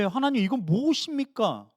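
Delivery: mild grumbling protest to God. Retold or imitated. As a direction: grumble it under your breath. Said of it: "투덜거리고 푸념할 때".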